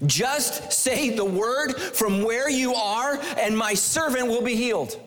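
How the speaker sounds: pleading officer. Retold or imitated. Officer's plea voiced.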